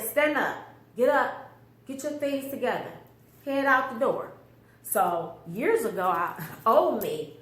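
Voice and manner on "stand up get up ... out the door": high, loud commanding inner voice; commanding voice of God. Retold or imitated. Mother retelling God's command to leave, high and loud. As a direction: order her up like a voice from above. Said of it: "what was that voice?".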